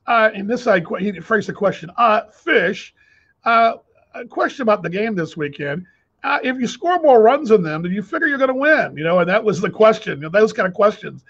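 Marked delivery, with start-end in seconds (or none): 2.3-9.0 higher, mock naive radio interviewer; imitating the clueless interviewer. Host mocking an Australian interviewer's obvious question, higher mock voice. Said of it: "and I'll do the imitation".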